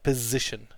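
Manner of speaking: position with a clearly buzzed middle z; position, voiced z held slightly. Shown as a demonstration. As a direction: model position with piz at the start. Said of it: "it's a Z sound at the end".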